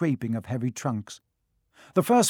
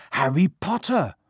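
in chorus; 3 semitones higher, 4 dB louder than usual. A narrator's reading. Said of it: "chorused the twins".

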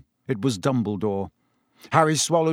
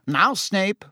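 startled check; taken aback, caution him; 7 semitones higher than usual. A narrator's reading. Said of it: "said Fudge, startled".

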